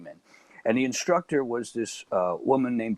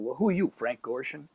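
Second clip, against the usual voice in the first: flippant; 3 semitones higher, 3 dB quieter than usual. Retold or imitated. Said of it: "Just flippantly".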